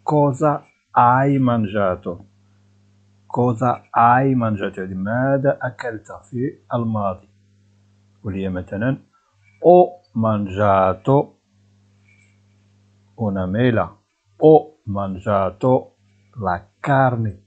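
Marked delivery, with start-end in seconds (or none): 0.0-4.8 slow, clear Italian question; drawn out for students; deliberate dictation pace; slow teaching model. Shown as a demonstration. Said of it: "teacher models slowly". 9.6-17.4 very slow, clear Italian model sentence; spelled out for learners; deliberate dictation pace; slow teaching model. Shown as a demonstration. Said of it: "teacher models slowly".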